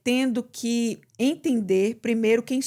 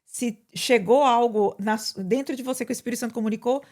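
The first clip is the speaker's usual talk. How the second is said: urging class. Retold or imitated. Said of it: "o que eu sempre falo na sala de aula".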